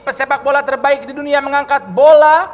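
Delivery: football commentator. Pretend. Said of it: "ala-ala komentator bola".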